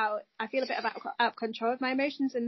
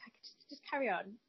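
quiet self-talk; 6 dB quieter than usual. Retold or imitated. Imitating own numb self-talk.

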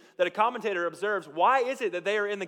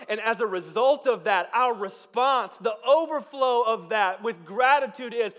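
preaching climax; 4 semitones higher, 6 dB louder, slower than usual. Real, not acted.

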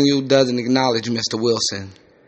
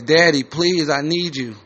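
a hint of a pleading small child; little girl; 3 semitones higher than usual. Daughter begging her daddy, lightly voiced little girl. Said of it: "Little girl's voice".

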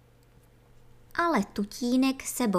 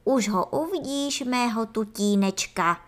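jubilant. Acted. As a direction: gush over the little darling. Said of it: "zajásal mravkolev".

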